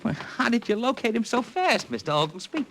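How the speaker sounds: normal talking voice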